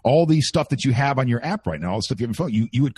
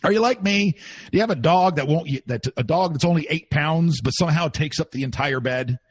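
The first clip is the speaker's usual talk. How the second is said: radio host question; 4 semitones higher than usual. Shown as a demonstration. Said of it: "something like".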